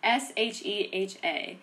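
letters S H E H A repeated one by one; spelling it out. Shown as a demonstration. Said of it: "was S".

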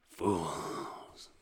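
low, contemptuous boss voice; sinister jaguar crime boss; villain boss. Acted. Jaguar boss addressing bungling henchmen, low menacing voice. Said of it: "the boss is like".

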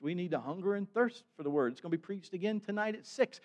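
ordinary talk

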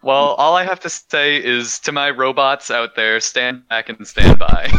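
rising to a loud call; rallying declaration. Pretend. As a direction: proclaim it loud and firm. Mock speech to his robots.

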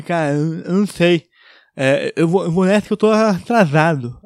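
nasal, mumbled excuse to leave; muffled fanho voice. Retold or imitated. Masked man escaping small talk, muffled nasal voice. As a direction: imitate making excuses through a mask. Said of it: "falar com a minha voz fanha".

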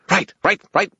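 high, loud, impatient fairy yell; screaming fairy. A narrator's reading. Fairy screams at wizard to hurry, impatient. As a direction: fire it off in a high squawk. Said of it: "Toot screamed".

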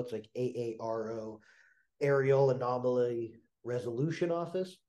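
stuffy allergy voice; nasal voice. Real, not acted. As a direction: speak as if congested. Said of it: "I sound terrible here".

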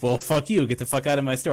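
half-hearted mock snap at the vendor; mock hostile brush-off. Store worker imitating the rude way he did not speak, mock anger. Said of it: "I didn't say it in a, like".

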